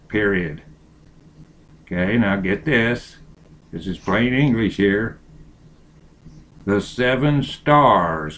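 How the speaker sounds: slow reading with punctuation called out; dictating. Acted. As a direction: read slowly, naming the punctuation. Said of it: "capital S, period".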